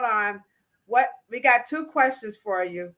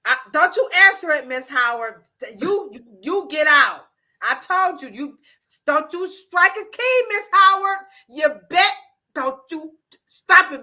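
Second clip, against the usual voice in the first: raised, pitched-up mock telling-off; mock scolding; 2 semitones higher, 5 dB louder than usual. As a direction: scold her in play, stumbling with outrage. Mock scolding of Miss Howard.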